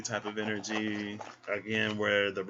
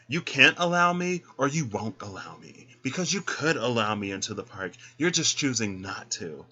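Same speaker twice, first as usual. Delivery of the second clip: indignant customer; 4 dB louder than usual. Pretend. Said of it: "And you're like".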